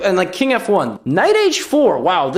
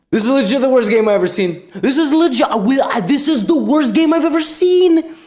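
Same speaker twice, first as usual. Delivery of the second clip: high-pitched exasperation, climbing at the end; aghast and getting higher; appalled disbelief; 8 semitones higher, 3 dB louder than usual. Real, not acted. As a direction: build from gasping dismay to a high cry. Appalled at the game.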